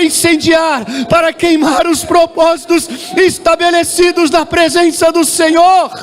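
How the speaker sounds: fervent preaching prayer. Real, not acted. Pastor calling the church to kneel before God, impassioned prayer. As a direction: call out the prayer at full force. Leads prayer at full force.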